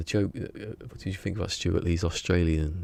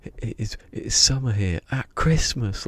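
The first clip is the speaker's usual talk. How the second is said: mock comedian quote; 4 semitones higher, 8 dB louder than usual. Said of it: "he goes".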